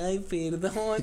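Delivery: slow, drawn-out sheepish apology; mock sheepish ay perdón. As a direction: apologize slowly, like a kid caught out. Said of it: "Y yo así como de".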